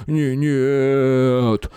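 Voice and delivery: a high, loud drawn-out whine; the big man wails and cowers; wailing no. A narrator's reading. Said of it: "снова запел тот". (жалобно взвыл)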